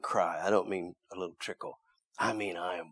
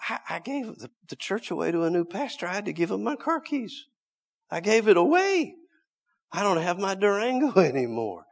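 high, loud cry with a laugh at the end; preaching shout; 12 semitones higher, 8 dB louder than usual. Real, not acted. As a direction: shout out every loss. Preacher shouting his losses.

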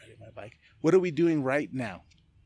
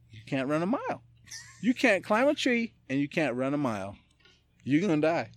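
rising mock panic; 4 semitones higher than usual. Real, not acted. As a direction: pitch jumps way up on the tree line, half-laughing. Building panic in scenario.

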